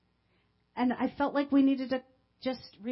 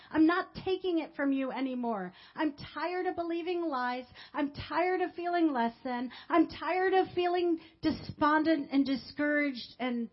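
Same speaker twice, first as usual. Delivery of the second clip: defiant shout; 3 semitones higher than usual. Retold or imitated. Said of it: "after screaming at the enemy".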